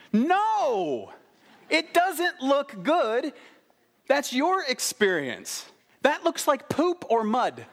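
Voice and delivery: high-pitched, drawn-out incredulous rebuttal; hammed-up indignant contradiction; mock outrage. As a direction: stretch the words in comic disbelief. Mock outrage at audience's answer.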